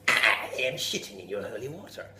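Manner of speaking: lightly voiced gloating devil. Devil boasting to the villager, gloating demon. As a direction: relish every filthy word like a demon.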